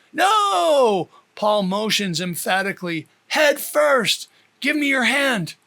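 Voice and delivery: officer shouting to the wife; urgent shout. Acted. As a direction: bark the orders over the wind. Officer shouting instructions in storm.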